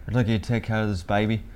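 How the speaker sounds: put-on British accent slipping into Australian; botched British, Australian-tinged; attempted British accent. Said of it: "trying to do a British accent and actually doing a good Australian one".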